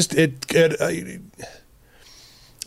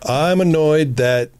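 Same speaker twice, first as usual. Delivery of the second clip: calm honest statement; 2 semitones higher, slower than usual. Shown as a demonstration. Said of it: "answer the question honestly".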